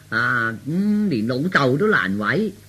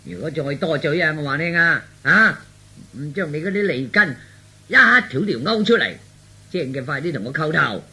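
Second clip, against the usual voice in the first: feigned mad threats. Acted. Son faking madness threatens father for show, mock raving. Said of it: "咁至似癲㗎嘛".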